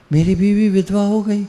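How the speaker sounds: lightly played lament; mock wailing. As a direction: begin to wail, half in jest. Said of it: "फिर रोने लगा".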